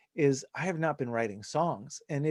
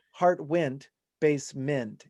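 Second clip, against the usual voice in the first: slow, "basement" forced to rhyme with "went"; "basement" with a full, stressed MENT at the end; unnatural stress; slower than usual. Shown as a demonstration. Songwriter showing a bad rhyme, "basement" said base-MENT. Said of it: "You never say basement".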